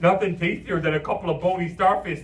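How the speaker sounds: loud zany cartoon enthusiasm; goofy imaginary friend. Imaginary friend tempts Martin with sandwiches, goofy enthusiasm. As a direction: sell it like a silly clown.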